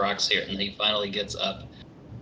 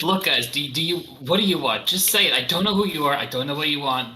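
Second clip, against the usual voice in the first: pleading captive; 3 semitones higher, 4 dB louder than usual. Acted. NPC pleading under threat.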